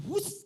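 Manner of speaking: sudden loud "hus"; whoosh of a speeding car. Retold or imitated. Preacher mimics the speeding car, loud whoosh. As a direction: imitate a car rocketing past.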